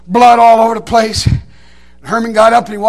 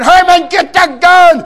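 high, loud, slow-stretched yell; retold frantic shout; desperate holler; 6 semitones higher, 5 dB louder, slower than usual. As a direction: yell each word long for help. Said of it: "And I, and I hollered".

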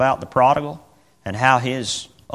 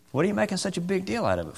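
voice of God; 7 semitones higher, 7 dB quieter, faster than usual. Acted.

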